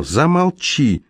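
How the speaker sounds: sharp, high, slow angry bark; barked order. A narrator's reading. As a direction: bark it at him to shut up. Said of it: "рявкнула она". (резкий, высокий, медленный окрик)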